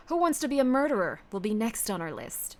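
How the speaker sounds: measured, mock-stern announcement; deliberate, authoritative title read; put-on commanding voice. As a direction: announce it like a commander briefing troops. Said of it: "telling me to talk like this".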